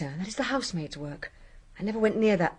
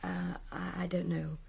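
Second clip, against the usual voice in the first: hesitant whisper; 4 semitones lower, 8 dB quieter, slower than usual. Acted. Maid unsure under questioning.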